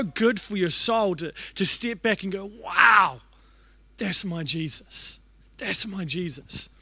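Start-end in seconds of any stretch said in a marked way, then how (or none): 2.6-6.7 hushed awe. Shown as a demonstration. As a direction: let it sink in reverently. Awed exclamation, slow.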